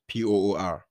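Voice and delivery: P O O R spelled letter by letter. Shown as a demonstration. Preacher spelling the word so the congregation hears it. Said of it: "but I'm saying poor".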